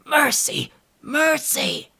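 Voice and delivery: high, loud, terrified plea; wild scream. A narrator's reading. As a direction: scream for mercy under the blows. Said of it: "a wild scream of".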